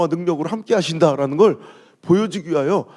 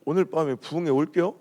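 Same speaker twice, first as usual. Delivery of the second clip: Chungcheong speech; 4 dB quieter than usual. Retold or imitated. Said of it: "충청도 사람들은".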